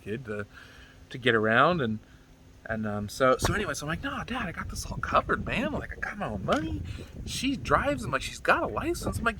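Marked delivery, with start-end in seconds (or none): 4.0-8.0 put-on whiny teen. Kid pleading with dad. 8.2-9.2 put-on whiny teen. Kid pleading with dad.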